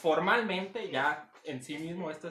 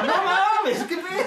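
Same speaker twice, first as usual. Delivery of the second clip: stunned disbelief; 13 semitones higher, 11 dB louder, much slower than usual. Retold or imitated. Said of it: "Y yo decía".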